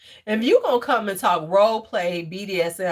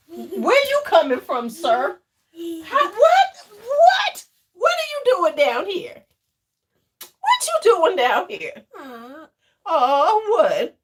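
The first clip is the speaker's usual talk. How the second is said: high-pitched playful surprise; 9 semitones higher, 5 dB louder, slower than usual. Real, not acted. Talking to a child who appeared.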